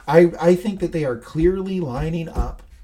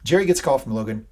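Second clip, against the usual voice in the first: ordinary delivery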